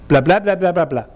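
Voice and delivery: an effortless stream of blah; babble demo. Shown as a demonstration. Teacher showing a babble sentence, effortless blahs. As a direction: rattle off blah without effort. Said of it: "as simple as".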